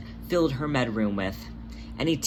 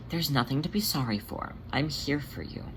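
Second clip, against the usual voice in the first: soft caring queen reassuring her scared companion; gentle reassuring Jelly; 2 semitones higher, 5 dB quieter than usual. Acted. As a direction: soothe a frightened friend softly. Jelly comforts Demeter.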